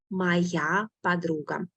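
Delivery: slowed Моя подруга, every syllable of Моя laid out; slow model reading. Shown as a demonstration.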